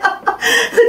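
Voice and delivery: helpless high-pitched laughter. Real, not acted. Pastor amused by her own show of relief, high laugh. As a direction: burst out laughing at your own joke.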